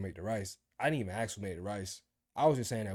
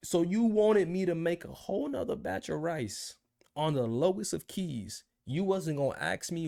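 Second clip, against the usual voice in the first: incredulous retort; 3 semitones higher than usual. Retold or imitated. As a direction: throw his own logic back at him. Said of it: "I'm like".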